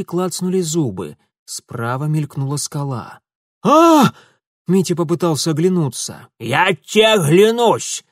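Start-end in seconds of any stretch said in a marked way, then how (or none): 3.6-4.1 very high, loud yelp; old woman yelping in fright; sharp startled cry. Acted. Boat hits rock. 6.4-8.0 slow, loud, grim crone threat; old woman warning him not to look back; menacing threat. Acted.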